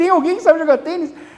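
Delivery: acted-out high-pitched call across a distance. Telling how an army soldier went through town, imitating a soldier shouting. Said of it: "Um soldado gritando na rua".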